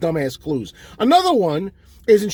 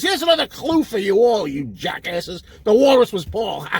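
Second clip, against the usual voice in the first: mock quote of a singer. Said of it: "in a song he says".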